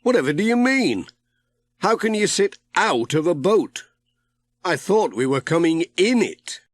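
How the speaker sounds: baffled he must sit out of a boat; Pat baffled. A narrator's reading. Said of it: "said Pat".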